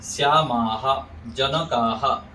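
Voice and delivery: श्यामाहा, जनकाहा ending in "aa-haa"; correct long ending. Shown as a demonstration. Teacher models examples, श्यामाहा, जनकाहा with full "haa". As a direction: hold आ and echo it in श्यामाहा, जनकाहा. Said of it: "ऐसे बोलेंगे".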